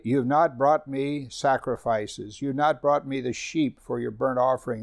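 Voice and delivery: slow, deliberate reading of the verse; scripture reading. Acted. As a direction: weigh each word of the rebuke. Scripture read.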